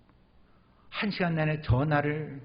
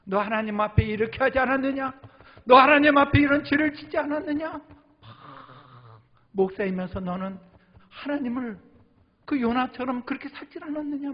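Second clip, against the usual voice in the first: high, loud rebuking voice; accusing inner voice; 11 semitones higher, 6 dB louder than usual. Retold or imitated. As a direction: thunder the accusation at yourself. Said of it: "막 나를 막 두드려 패는 거예요".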